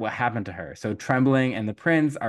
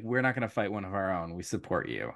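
much lower, quicker bro-ish pledge; Irish princes; 3 semitones lower, 6 dB quieter, faster than usual. Retold or imitated. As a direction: drop deep to pledge loyalty.

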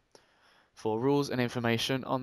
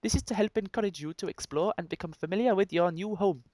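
higher-pitched, badly faked Welsh; attempted Welsh accent; 5 semitones higher than usual. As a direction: keep trying Welsh as you read. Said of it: "I can't do Welsh either".

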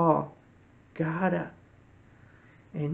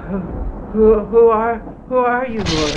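loud, stammering alarm, pitched up; mock-frightened Saul calling to the voice; startled stammer; 3 semitones higher, 8 dB louder than usual. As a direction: stumble over "who" as if knocked flat.

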